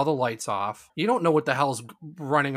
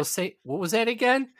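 mock challenge; 10 semitones higher than usual. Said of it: "I'd go".

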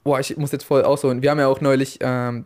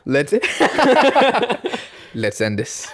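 put-on German accent; 9 semitones higher, slower than usual. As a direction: say it like a heavy German. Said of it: "todesten deutschen Akzent".

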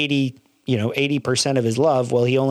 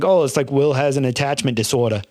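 a bad, hammy Boston accent; mock Boston accent, played for laughs. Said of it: "with my horrible Boston accent".

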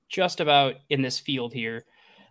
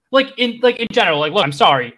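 louder, mildly exasperated protest; exasperated narrator; 4 semitones higher, 5 dB louder than usual. Acted. Narrator complains heroes' win makes no sense, exasperated. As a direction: let the narrator lose patience a little.

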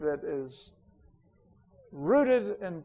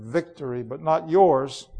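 cold, low reply; 4 dB louder than usual. Acted. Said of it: "I said".

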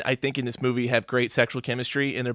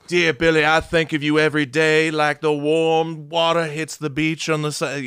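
mock poetic letter. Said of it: "that fucking poetic type of writing".

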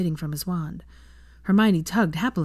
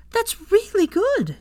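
higher, slow, loud cheer; 4 dB louder, slower than usual. A narrator's reading. Hermione cheering Draco's first wisps, high and slow. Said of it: "she cheered".

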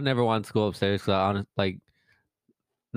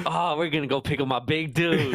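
put-on excited kid; 7 semitones higher than usual. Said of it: "He's like".

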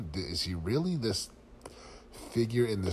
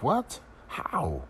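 incredulous; 7 semitones higher than usual. Retold or imitated. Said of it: "I'm like".

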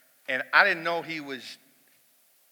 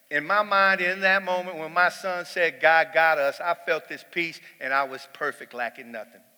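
building emotion; 3 semitones higher, 6 dB louder than usual. Real, not acted.

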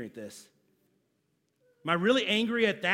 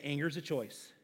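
repeat to neighbor; 4 semitones lower, 9 dB quieter than usual. Shown as a demonstration. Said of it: "turn to your neighbor and say".

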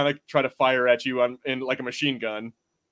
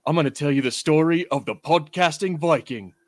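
narrating voice; 2 semitones higher, 4 dB louder than usual. Acted. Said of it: "he does, like, a narrating thing".

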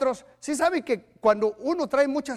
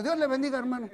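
stiff cold greeting; 7 dB quieter, much faster than usual. Retold or imitated. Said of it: "ponte como tieso".

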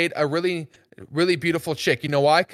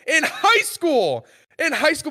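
mock high voice; 9 semitones higher, slower than usual. Mocking his own earlier phrase.

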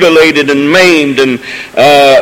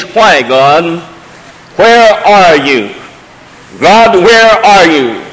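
slow, pleading cry of Job, lightly voiced; Job's lament; slower than usual. Job turned to the wall asking God, mild slow lament. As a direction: drag out the question like a man in despair. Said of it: "the question that Job asked".

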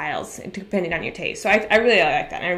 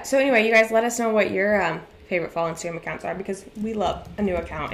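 breathless, heavy breathing. Real, not acted. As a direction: talk while short of breath. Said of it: "I'm so out of breath".

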